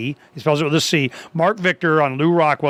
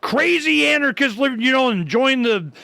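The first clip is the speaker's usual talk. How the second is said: high, insistent imitation of the friend; friend pleading; 5 semitones higher than usual. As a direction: pitch it up and press him to drop anarchism. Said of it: "But he goes".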